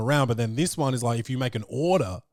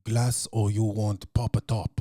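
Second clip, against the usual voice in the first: can't-be-bothered waitress; mildly voiced fed-up server; bored hostess; slower than usual.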